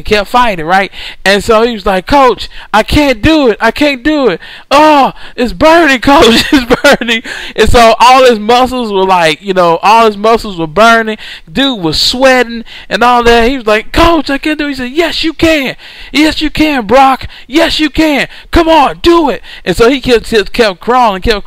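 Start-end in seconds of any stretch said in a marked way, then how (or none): 2.1-7.2 put-on higher, strained plea of a worn-out kid; exhausted player pleading. Player in agony tells the coach he can't go on, pleading higher. 13.9-14.7 put-on higher, strained plea of a worn-out kid; exhausted player pleading. Player in agony tells the coach he can't go on, pleading higher. 14.9-19.4 higher, pushing encouragement; urging coach. Retold or imitated. Coach pushes the worn-out player to keep crawling, urgently.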